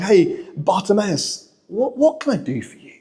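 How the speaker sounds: gentle, kneeling to someone. Acted. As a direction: speak gently, as if crouched beside them. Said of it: "getting down and saying".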